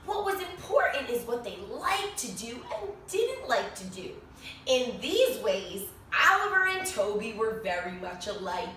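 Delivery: lively storybook narration with bright rises; animated read-aloud for a class; reading to children. A narrator's reading. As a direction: read it like story time for little kids. Reads picture book to children.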